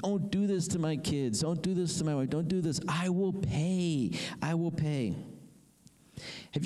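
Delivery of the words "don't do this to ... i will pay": higher, slow begging plea, lightly acted; a mild imitation of a debtor begging for his family; pleading. Preacher voicing the debtor begging the king, mild pleading. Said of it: "He starts begging and pleading".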